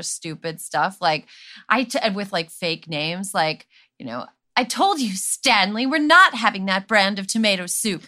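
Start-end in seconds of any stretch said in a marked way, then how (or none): 4.6-8.0 mock mid-Atlantic accent. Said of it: "fake mid-Atlantic accents".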